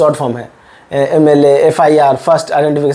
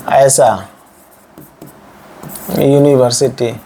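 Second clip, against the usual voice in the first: slow sounding out; 3 semitones lower, slower than usual. Shown as a demonstration. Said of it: "उच्चारण जो इसका pronunciation है".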